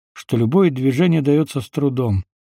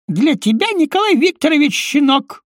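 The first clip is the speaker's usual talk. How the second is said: snarling rebuke; 14 semitones higher than usual. A narrator's reading. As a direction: bite back contemptuously. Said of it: "окрысился тот".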